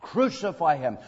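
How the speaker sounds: crucify him, said firmly at normal volume; the crowd's demand, held back a little; preacher voicing the crowd, restrained; crowd cry. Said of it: "For they cried".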